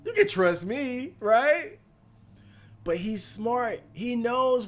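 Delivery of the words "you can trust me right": mock party invitation. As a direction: sell the fake friendliness, a touch hammed-up. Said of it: "He insisted".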